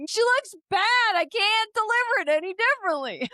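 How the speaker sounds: lightly voiced inner devil, high and pinched. Her inner devil judging the outfit, lightly voiced high. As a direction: play the little devil on her shoulder. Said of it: "angel and devil were like".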